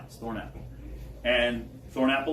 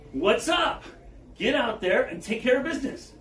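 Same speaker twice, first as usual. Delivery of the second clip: lightly voiced David; 10 semitones higher than usual. David to his brothers.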